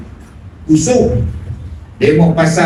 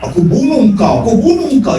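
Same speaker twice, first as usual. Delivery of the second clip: mock snarl; 6 semitones higher than usual. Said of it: "janganlah tengking-tengking".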